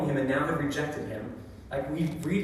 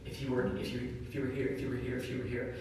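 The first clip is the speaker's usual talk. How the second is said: softer, repeated pleading murmur; imagined grieving plea; 7 dB quieter than usual. Retold or imitated. Grieving sisters pleading to absent Jesus, softer repeated plea. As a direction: plead over and over, almost to yourself. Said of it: "I can just imagine those two sisters".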